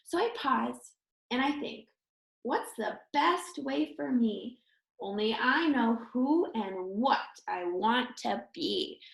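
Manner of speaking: put-on sing-song rhyme read to children; reading a story poem. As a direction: tell the little story in verse. Reads rhyming story poem.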